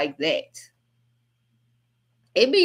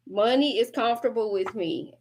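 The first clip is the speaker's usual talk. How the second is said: teacher leading class. Shown as a demonstration. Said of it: "Say it with me, class".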